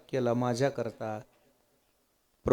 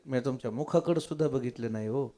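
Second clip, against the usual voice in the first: hurt pleading; 3 semitones lower, 5 dB quieter than usual. Acted. Lakshman begs not to be accused.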